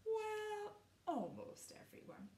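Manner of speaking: unvoiced whispered aside. A narrator's reading. Storyteller letting listeners in on a secret, whispered aside. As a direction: let the words drop to a secret whisper.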